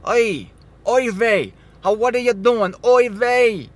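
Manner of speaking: mock exasperated Jewish grandmother; yiddish accent. Mocking a Passover-keeping Israelite.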